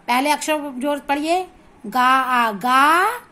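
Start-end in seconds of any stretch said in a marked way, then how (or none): 1.9-3.2 गा drawn out long and pushed harder; stress on गा. Shown as a demonstration. Teacher joining letters for a reading pupil, stressed long गा. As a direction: lean hard on the long गा. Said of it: "जोर से बोलेंगे".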